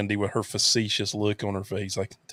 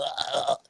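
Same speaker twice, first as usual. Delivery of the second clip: weak strangled "ah", acted out; imitated choked groan; 6 dB quieter than usual. Retelling being unable to talk after the hit, imitated groan. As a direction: mimic failing to get words out. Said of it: "I'm sitting there going".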